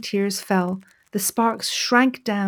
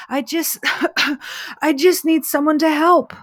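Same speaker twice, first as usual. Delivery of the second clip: coughing, then a high, louder plea; 6 semitones higher, 4 dB louder than usual. Acted. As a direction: choke out the plea through smoke. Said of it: "coughed the little parrot".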